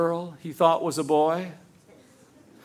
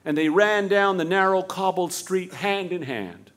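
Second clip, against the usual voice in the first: ordinary delivery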